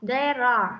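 "there are" joined as one unit through the R; teacher's repeated linked "there are"; linked sounds. Shown as a demonstration. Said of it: "khi nối âm chúng ta đọc là".

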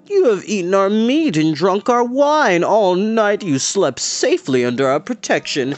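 high, hammed-up pleading that slows at the end; accusing, begging. A narrator's reading. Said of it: "The man cried out in accusing, begging tone".

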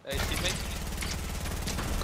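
very slow stretched greeting; drawn-out call. Pretend. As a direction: draw out the call mockingly. Calling out in game.

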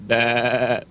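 playful goat baa; a little bleating Bah. Pretend. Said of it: "is a goat".

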